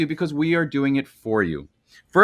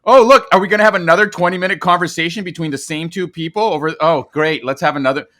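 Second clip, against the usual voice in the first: louder, sarcastic fake delight; mock enthusiasm; 3 semitones higher, 6 dB louder than usual. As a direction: sneer at it with pretend excitement. Mocks dull dialogue of a show.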